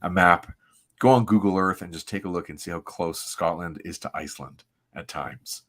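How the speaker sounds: measured, dramatic comic-book narration; story narration. Acted. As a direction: read it like a solemn, grand opening. Reads comic narration aloud.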